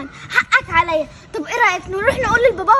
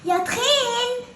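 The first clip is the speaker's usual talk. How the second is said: mocking taunt; 2 semitones higher, much slower than usual. Kid taunting brother as fat.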